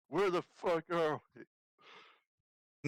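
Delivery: drawn-out, high, loud howl; loud, slow intimidating howl; howling yell. Acted. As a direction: yell it like a howl, stretching the words. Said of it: "howling voice and yell at him".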